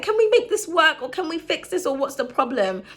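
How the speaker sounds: high, earnest plea to patch things up; pleading fixer. Retold or imitated. She imitates herself calming a quarrel, high and earnest. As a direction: ask gently, like you just want peace. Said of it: "I'm just like".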